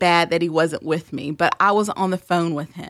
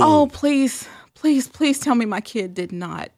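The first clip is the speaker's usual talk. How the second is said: mock desperate plea; 4 semitones higher than usual. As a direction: beg in playful dread that it isn't so. Mother dreading what her kid did.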